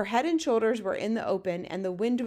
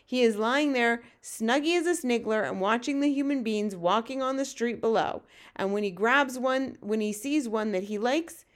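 lightly voiced giant, livelier than the narration; BFG storyteller giant. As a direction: lightly play a giant explaining giants' habits.

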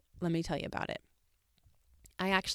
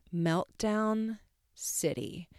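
whispered, slowed down; dramatic stage whisper; hushed aside; 3 semitones higher, much slower than usual. Real, not acted. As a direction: breathe it out like a secret. Dramatic aside about meltdown.

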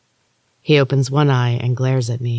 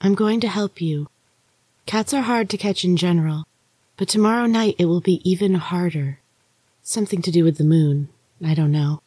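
Maria's ghostly voice; 4 semitones higher than usual. Acted. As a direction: lift it and soften it, an eerie sister warning. Maria speaks in the story.

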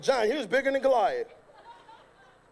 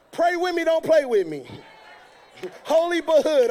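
joking with a laugh; 3 semitones higher, 5 dB louder than usual. Real, not acted. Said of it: "I'm just playing, y'all".

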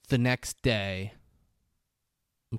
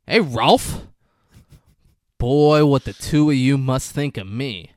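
loud, raised-pitch movie-character voice; loud calling out; 4 semitones higher, 11 dB louder than usual. Retold or imitated. Steven confronts Rolf in a retold scene, loud calling out. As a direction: call out forcefully, acting the part.

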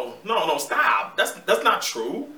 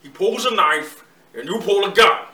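rising from firm to a loud, fast rant; building Untouchables rant; 3 semitones higher, 10 dB louder than usual. Acted. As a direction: work yourself up into a shout. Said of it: "less The Untouchables".

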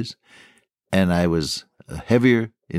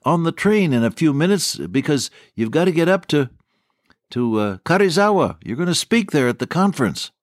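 higher, hurried-along pleading; urgent retold hurry-up; 6 semitones higher than usual. Host telling Bob he must catch the train, urgent. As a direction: imitate a host urging you off to the train.

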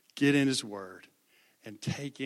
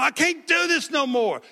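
put-on much higher, louder wailing boy's cry; imitating bawling; 13 semitones higher, 10 dB louder than usual. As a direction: reenact the sobbing boy, wailing high. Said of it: "he was bawling".

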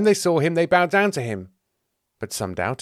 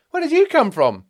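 loud, high astonishment; pitched-up, amazed demand; startled question; 7 dB louder than usual. Acted. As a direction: blurt it out in shock. Peter startled by another unknown disciple.

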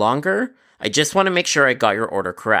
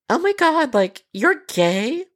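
high put-on voice, slowing on the last words; shocked customer; slower than usual. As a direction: gasp it out, then stretch the question.

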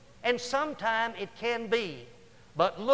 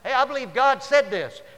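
mock prophet voice; 5 semitones higher, 8 dB louder than usual. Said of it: "Just 'cause somebody says".

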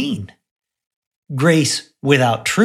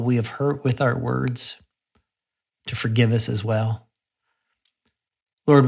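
prayer. Acted. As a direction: pray gently over the listeners. Leads a closing prayer.

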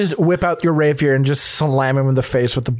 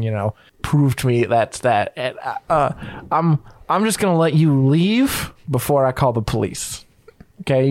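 nervous, polite shopkeeper voice; a hesitant clerk turning someone away; gun shop owner; 3 semitones lower than usual. Acted. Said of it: "he goes".

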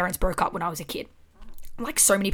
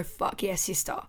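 softer, tender pride, almost to herself; soft proud cheer; 4 dB quieter than usual. Retold or imitated. To her eighteen-year-old self, soft tender pride. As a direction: quietly tell your younger self she did it. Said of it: "I wanna hug my eighteen-year-old self and go".

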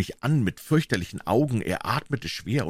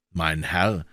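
forced calm; 4 semitones lower than usual. A narrator's reading. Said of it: "sagte ich mit gezwungener Ruhe".

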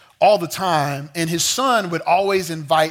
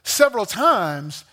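indignant Adam; 4 semitones higher than usual. Retold or imitated. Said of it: "Adam says".

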